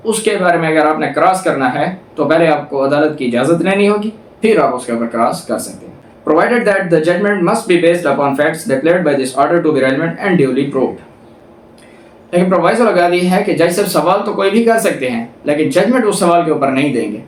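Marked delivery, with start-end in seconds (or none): 6.3-11.0 slow, deliberate reading of legal text; reading the statute. Shown as a demonstration. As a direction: read each clause out slowly, like a law book. Reads statute text aloud.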